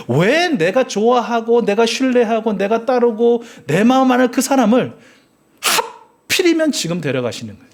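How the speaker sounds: resentful outburst. Retold or imitated. Preacher voices Israelites losing beloved Aaron, in bursting resentment. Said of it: "원망이 터져 나오는 거예요".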